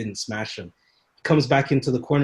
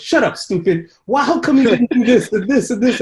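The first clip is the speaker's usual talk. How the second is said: higher and louder, a mock trainer's tirade; mock scolding; 9 semitones higher, 7 dB louder than usual. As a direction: scold like the old trainer, half-joking. Trainer scolding him after fight.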